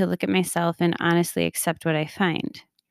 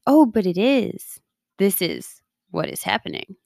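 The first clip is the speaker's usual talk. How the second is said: accepting. Retold or imitated. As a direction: let it go and accept it kindly. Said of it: "to just be like".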